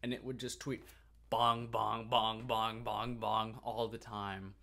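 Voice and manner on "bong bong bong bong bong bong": evenly repeated spoken bell strikes; imitated clock chimes. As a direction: toll it like a big clock, steadily.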